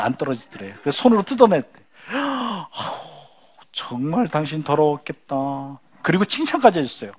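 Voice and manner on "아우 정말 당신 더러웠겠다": soft, slow groan of sympathy; sympathetic husband. Acted. 싱크대 청소한 아내에게 공감하는 남편, 느리고 부드럽게. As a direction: sigh it out, feeling her disgust.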